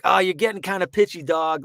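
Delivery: Randy Jackson impression. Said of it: "a Randy Jackson from American Idol".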